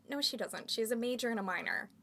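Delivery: heated retold comeback, loud; indignant rant. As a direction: build to an indignant outburst. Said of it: "And I'm like".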